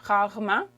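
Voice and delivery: rarement with the middle re almost gone; unstressed second re. Shown as a demonstration. Teacher explains the dropped emphasis, casual short rarement. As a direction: squeeze rarement into rar-ment. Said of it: "remove the emphasis from the second re".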